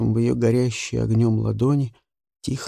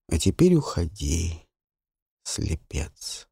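solemn curse; 3 semitones higher than usual. Acted. She curses the boy.

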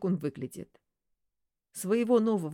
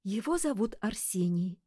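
dreamy; 2 semitones higher than usual. Acted. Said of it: "мечтательно сказала она".

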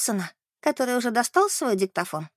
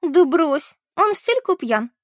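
high, louder, falsely light dismissal; feigned amusement; 7 semitones higher, 5 dB louder, slower than usual. A narrator's reading. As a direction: brush it off with pretend amusement. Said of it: "притворно рассмеялась Бет". (притворно весело, будто смеясь)

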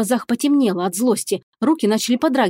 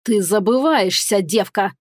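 slow menacing god's growl; slower than usual. Acted. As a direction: growl the threat down at her. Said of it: "рыкнул бог".

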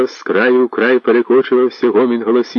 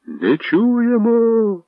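calling out; 14 semitones higher, much slower than usual. Acted. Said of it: "почали гукати новгородці".

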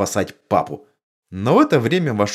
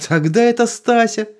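firm, higher and louder verdict; decisive; 14 semitones higher, 5 dB louder than usual. A narrator's reading. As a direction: state it with no room for doubt. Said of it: "решительно сказала мама".

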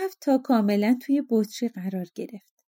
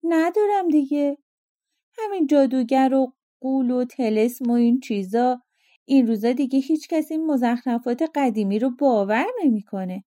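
dismissive, a touch of scorn; contemptuous; 3 semitones higher than usual. Acted. Fisherman mocks the genie's magic, lightly contemptuous. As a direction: brush the old tales off with a sneer. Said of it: "با لحنی تحقیرآمیز گفت".

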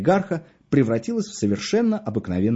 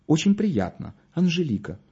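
higher, bashful little girl, lightly voiced; bashful mumble; 5 semitones higher than usual. A narrator's reading. Flattered girl introduces herself to a gallant stranger, bashful mumble. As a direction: answer shyly, through an embarrassed smile. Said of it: "смущённо улыбаясь, пробормотала".

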